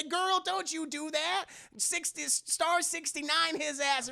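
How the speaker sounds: high, slow sassy talk. Retold or imitated. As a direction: sass the screen. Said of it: "will talk to the screen and say".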